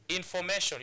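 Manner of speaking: "information" with the stress on the second-last syllable, "MA", then falling; demonstrated word stress. Shown as a demonstration. Teacher shows learners how you pronounce the word, stressed inforMAtion. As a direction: model "information" clearly, stressing inforMAtion. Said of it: "this is how you pronounce this word".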